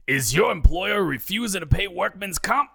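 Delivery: put-on sleazy TV lawyer in Brooklyn accent. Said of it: "in his heavy Brooklyn accent".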